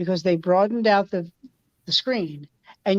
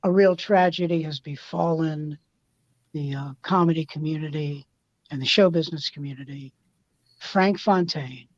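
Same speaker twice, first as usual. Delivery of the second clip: feigned sincerity; 3 semitones lower than usual. Retold or imitated. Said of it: "I mean feign, sincerity".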